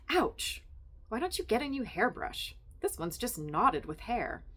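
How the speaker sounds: high, bright-voiced nosy wife; chatty Estelle. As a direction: gush at Sylvia like a meddling friend.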